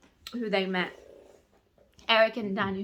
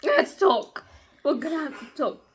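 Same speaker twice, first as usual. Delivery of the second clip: high, loud announcement; excited outburst; 4 semitones higher, 4 dB louder than usual. Real, not acted. Reader about to dish on the chapter, excited outburst. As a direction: burst in with big news. Excited reaction before recapping.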